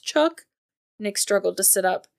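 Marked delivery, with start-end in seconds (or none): 0.0-0.5 much higher, disbelieving Chuck; Chuck? pitched up in disbelief; incredulous repeat. Acted.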